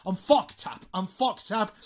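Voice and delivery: "fucked up" as one joined fuck-tup; linked T. Shown as a demonstration. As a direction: carry the T of "fucked" into "up". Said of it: "Lo unimos con la U de up". ("fucked up" enlazado, como "fock-tap")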